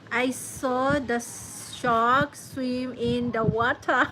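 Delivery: slow, drawn-out New England accent demo. Shown as a demonstration. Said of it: "New England say".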